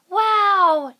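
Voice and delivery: loud, high whoop of glee; excited yell. A narrator's reading. Kids cheering when the teacher is absent, a loud joyful yell. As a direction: shout it out with delight. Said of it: "yelled the kids".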